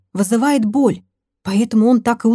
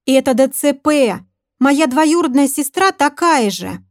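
know-it-all; 5 semitones higher than usual. Acted. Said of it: "с умным видом просветила нас отличница Ленка".

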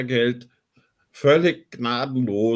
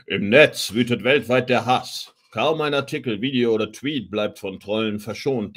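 dramatic movie trailer announcer. Acted. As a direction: read it like an epic film trailer.

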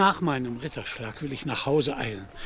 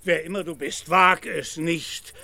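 indignant threat; 3 semitones higher than usual. Acted. Knight warning the drover away from his armour, indignant. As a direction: warn him off the armour.

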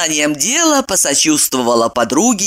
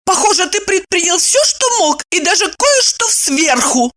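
high snappish girl's voice, lightly voiced; boiling bark; 13 semitones higher than usual. A narrator's reading. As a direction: snap back, boiling over. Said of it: "вскипая, рявкнула Евдокия".

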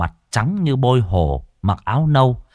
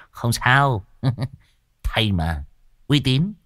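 laughing reassurance; 2 semitones higher, 3 dB quieter, slower than usual. Acted. Servant laughs off the worry.

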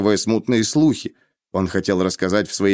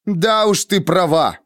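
slow, higher-pitched sarcastic agreement; withering; 8 semitones higher, slower than usual. A narrator's reading. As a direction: concede it with crushing scorn. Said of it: "уничтожающе бросил я". (уничтожающе, с издёвкой)

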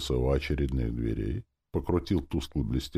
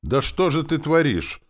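high, raised alarmed outcry; shout; 12 semitones higher, 6 dB louder than usual. A narrator's reading. Elf seeing soldier struck down, crying out. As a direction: cry out in reproach, not full shout. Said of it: "Чивагор крикнул".

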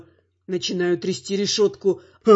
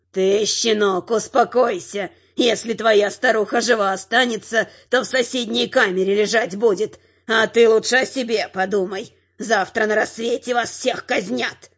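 guard threatening the caged prisoner with execution; menacing guard; 2 semitones higher than usual. A narrator's reading. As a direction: sneer down at the prisoner.

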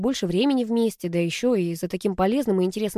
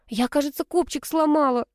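high, whining wail; 7 semitones higher than usual. A narrator's reading. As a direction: whine it out in a high voice. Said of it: "заныла девушка". (заныла, высоко)

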